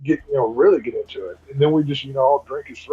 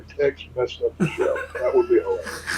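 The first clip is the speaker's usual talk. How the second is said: laughing; 2 semitones lower, 3 dB quieter than usual. Pretend. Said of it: "just write somewhere on there".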